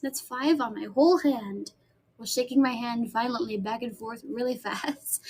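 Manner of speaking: words between puffs of air; talking while blowing on nails. Real, not acted. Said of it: "I'm blowing on my nails".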